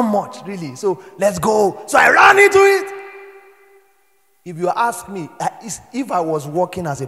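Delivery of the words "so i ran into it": high, loud burst; preacher's triumphant shout; shouted climax. Real, not acted.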